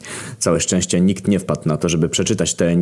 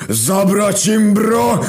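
high, loud, slow demonic roar cut short; inhuman roar cut off; 4 dB louder, much slower than usual. A narrator's reading. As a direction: bellow the order until something hits you. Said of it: "Lucifer roaring orders, cut off". (nieludzki ryk przerwany w pół słowa)

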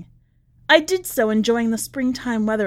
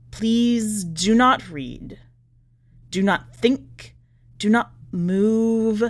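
slow, halting, urgent warning; a broken prisoner begging you to stop reading; desperate scrawled plea; 3 semitones lower, slower than usual. Acted.

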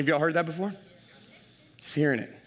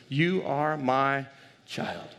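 whispering; much slower than usual. Acted. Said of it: "first thing he's whispering to us".

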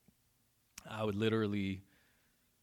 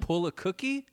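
confused; 10 semitones higher, 3 dB louder than usual. Real, not acted. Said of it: "my Midwest accent came out".

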